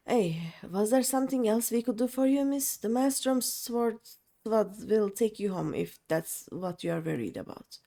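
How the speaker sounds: lightly voiced swaggering pirate boss; a hint of a rough sea captain; gruff pirate captain. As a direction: play the cocky pirate, pleased with the raid. Reads the pirate captain's lines aloud.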